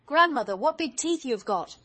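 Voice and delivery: high-pitched exclamation, loud at the start; amazed. A narrator's reading. Girl marvels at grandmother's teeth, high amazement.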